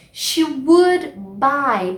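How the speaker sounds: very slow, stretched words; slow model phrase. Shown as a demonstration. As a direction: drill it slowly for students. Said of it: "repeat of example". (bem devagar)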